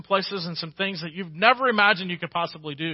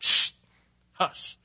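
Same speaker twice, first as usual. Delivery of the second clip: hushing. Retold or imitated. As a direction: hush the girls gently. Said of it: "I'm like".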